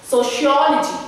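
"Sociology" stressed on "ol", just before "logy"; teacher demonstrating "Sociology" with weight before "logy". Shown as a demonstration. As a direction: punch the "ol" in "Sociology". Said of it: "I'm stressing here just before logy".

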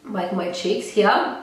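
stuffy, nasal voice; talking through a blocked nose. Real, not acted. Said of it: "I apologize for this nasally voice".

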